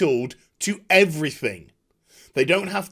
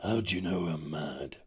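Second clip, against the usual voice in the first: mock heroine reply; 13 semitones lower, 11 dB quieter than usual. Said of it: "She replies by saying".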